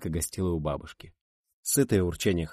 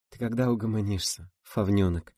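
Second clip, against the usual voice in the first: gentle scolding; 3 semitones higher than usual. Acted. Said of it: "ласково пожурила Рита".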